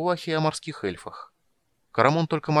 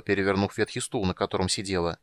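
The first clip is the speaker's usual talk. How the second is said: plain reading voice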